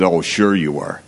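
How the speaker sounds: dry, disbelieving sneer; sarcastic. Retold or imitated. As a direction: say it like you don't buy it. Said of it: "Probably sarcastic and cynical".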